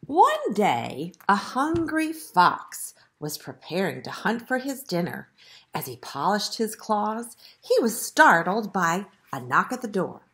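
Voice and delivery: measured, expressive picture-book reading; story narration. A narrator's reading. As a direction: read it to young children, stressing key words. Reads the story aloud.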